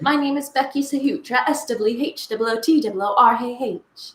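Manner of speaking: lightly put-on British accent, spelling out a name; British friend impression. Co-host copying how her friend says her name, light British accent. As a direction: copy a friend introducing herself with a British accent. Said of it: "That's how she says her name".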